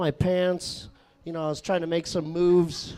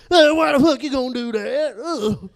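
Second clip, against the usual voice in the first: high, loud redneck groan; Jacob's redneck outrage; 7 semitones higher, 8 dB louder than usual. Retold or imitated. Coworker learning of a late oil change, loud redneck outrage. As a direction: object in an exasperated redneck accent. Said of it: "like a shitty redneck juggalo".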